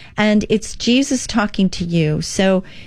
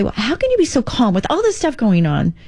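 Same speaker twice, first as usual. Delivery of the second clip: quoting people; 5 semitones higher than usual. Retold or imitated. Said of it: "People say".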